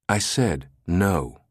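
slow, firm no; flat-out deny him; firm refusal. Acted. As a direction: plant your feet and refuse. Susan blocks Hale firmly.

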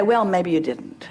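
amused, sheepish surrender; laughing concession. Acted. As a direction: cave in while chuckling. Giving in, laughing.

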